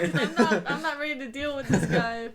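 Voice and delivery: laughing. Real, not acted. Player laughing at NPC.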